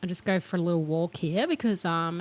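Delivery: to a relative calling at work, a lightly polite work voice. Retold or imitated. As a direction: switch into a proper phone voice. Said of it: "clears throat".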